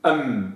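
أم with m given its full medium length. Shown as a demonstration. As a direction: hold the m of أم evenly. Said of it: "الميم حرف متوسط".

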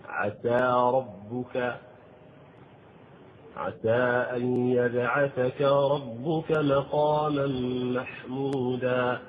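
slow tajwid recitation; slow Quranic chant. Acted. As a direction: recite the verse slowly with tajwid. Quotes Quran verse.

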